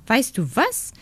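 leicht gesprochene, hohe Meisenstimme; Meise, froh und zärtlich. Acted. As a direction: eine glückliche kleine Meise, nur angedeutet. Meise voiced by narrator. (die Meise dankt dem Waldzwerg, sanft und glücklich)

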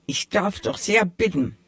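offended. Acted. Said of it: "widersprach die Stimme gekränkt".

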